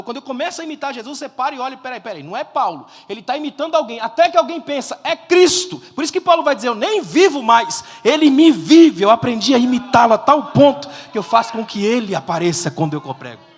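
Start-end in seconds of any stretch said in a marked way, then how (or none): 1.8-13.5 full-force preaching. Real, not acted. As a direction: build into loud, impassioned proclamation. (pregação inflamada, em voz muito forte)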